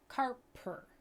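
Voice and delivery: "carper" lifted high as the misread word; quoting the misread. Retold or imitated. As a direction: point out "carper" with a questioning lift. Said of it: "I might say".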